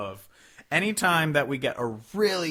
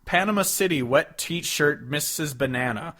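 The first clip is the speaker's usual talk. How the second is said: quoting the lyric; 4 dB louder than usual. Retold or imitated. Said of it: "He goes".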